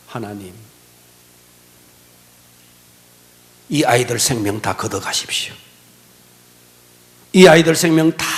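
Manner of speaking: low, hushed, broken plea; despairing prayer. Retold or imitated. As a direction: give up everything in a faint plea. (낮고 힘없이 절망하는 기도)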